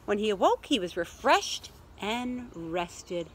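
measured picture-book reading, drawing out key words; story narration. A narrator's reading. Teacher reading a picture book to children, storytelling voice. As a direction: read it to little listeners, unhurried.

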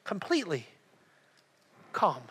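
completely calm, dropping soft and low; hushed calm ending; softly stressed. Shown as a demonstration. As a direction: let the words settle down quiet. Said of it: "say this word".

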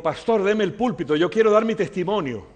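voicing a man's request; acted plea. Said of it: "Me dijo".

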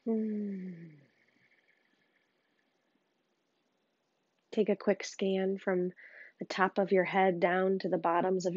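calm meditation guide with long pauses; unhurried, understated grounding voice; guided meditation. Real, not acted. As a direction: gently guide them inward, leaving space between phrases.

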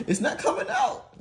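high, laughing through the words; laughing frustration. Real, not acted. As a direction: laugh it out, exasperated and slow. Stuck screw, laughing in frustration.

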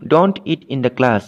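very slow, word by word; slow dictation. Shown as a demonstration. Teacher slowly dictating an example sentence to students, very slow. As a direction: spell each word out slowly for the class.

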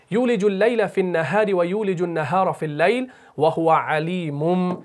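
measured chant up to the held m; Quran recitation. Shown as a demonstration. Teacher re-reads the verse for learners, measured chant. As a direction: recite evenly and stop on अलीमुम.

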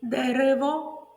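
"зелене" said slowly and drawn out; slow sign word. Shown as a demonstration. Teacher modelling the rain word game. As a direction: snap the noun, stretch the adjective. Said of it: "ознаки повільно".

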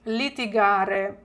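slow, clear Italian model; slow model word. Shown as a demonstration. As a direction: say it slowly for students to repeat. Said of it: "come si dice сваритись італійською".

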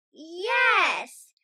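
loud, high little cheer; a delighted kid's yes. A narrator's reading. Peppa and George cheer in the car, a loud high cheer. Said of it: "Peppa and George cheer".

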